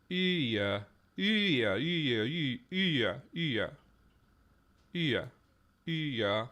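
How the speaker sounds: "Iya" with a y-glide linking the two vowels; glide between vowels. Shown as a demonstration. Trying out word forms aloud, "Iya" said with a glide. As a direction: draw out the i, then glide into "ya". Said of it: "like, a glide".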